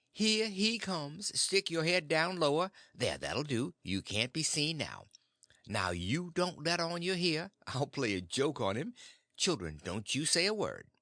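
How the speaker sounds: a hint of a conspiring aunt; hurried aunt. Aunt hiding the boy from her husband, lightly urgent.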